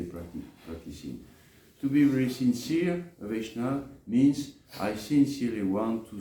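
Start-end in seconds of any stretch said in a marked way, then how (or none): none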